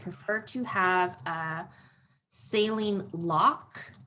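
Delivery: slow, drawn-out dictation; measured words at handwriting speed; writing aloud. Real, not acted. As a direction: say it slowly as you write it down. Dictating while writing the plan.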